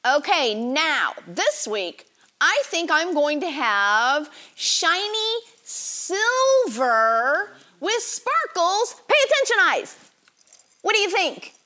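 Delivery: sweet patient sunday school teacher. Acted. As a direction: gently coax little children to settle. Leads kids before Bible story.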